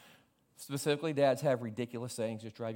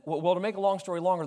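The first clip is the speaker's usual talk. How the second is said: imitating dad; 5 semitones higher, 4 dB louder, faster than usual. Imitating dad's saying.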